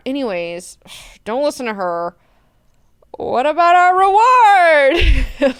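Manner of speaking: put-on high, loud sassy girl talk; sassy brush-off. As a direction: dismiss her with sass, then beg. Antiac sassily dismissing Lucille.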